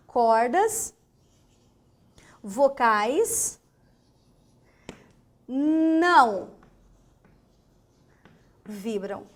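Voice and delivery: Cordas vocais não vibram with long pauses and não loudest; slow stressed phrase. Shown as a demonstration. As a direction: punch não in the middle of the pause-split phrase. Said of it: "teacher stresses key phrase".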